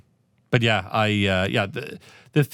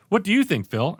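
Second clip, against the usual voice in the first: high, mock host asking a guest; podcast host; 7 semitones higher than usual. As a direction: play host to a statue. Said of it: "And then I'm like".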